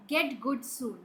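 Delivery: "Get good soon." said as the mistake to avoid; wrong version. Shown as a demonstration. Teacher to children, showing the wrong phrase, plainly set up. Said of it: "Do you say that?".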